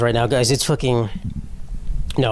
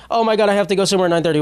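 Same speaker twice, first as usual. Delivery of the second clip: mock excuse; 6 semitones higher, much faster than usual. Mocking excuse, high and fast.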